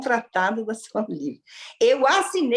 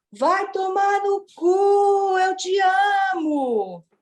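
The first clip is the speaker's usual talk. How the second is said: high, very slow yell with "cu" stretched out; 9 semitones higher than usual. Retelling what a lady shouted across the supermarket: imitating a lady shouting. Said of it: "ela gritou assim".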